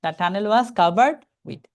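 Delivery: very slow, each word drawn out; deliberate teacher read; slow reading demo. Shown as a demonstration. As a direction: model the phrase slowly for students. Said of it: "With থেকে একটানা কতটুকু অংশ পড়বেন?".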